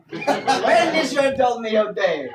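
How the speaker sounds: loud, slow Italian advert catchphrase; Grandpapa Dolmio. Acted. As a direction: call it out like a cartoon Italian advert. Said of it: "Grandpapa Del Mio".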